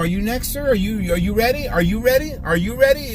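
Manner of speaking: courteous, confident ask with eye contact; polite direct ask. Shown as a demonstration. Barber showing how to ask the next customer, polite and confident. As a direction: invite the customer, politely and sure. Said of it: "ask them".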